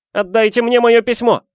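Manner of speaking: high, loud yell with MOЁ hit hard. A narrator's reading. Harry to uncle Vernon, furious yell. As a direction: roar at the uncle. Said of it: "заорал он".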